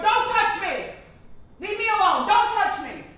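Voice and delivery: loud, high frantic yelling; panicked shout. Retold or imitated. Old man on bus steps shouting at the pushy crowd.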